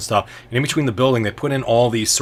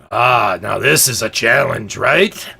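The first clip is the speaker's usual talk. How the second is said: louder, drawn out, lightly voiced challenger; challenger's role; 6 dB louder, slower than usual. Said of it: "he looks to you and he says".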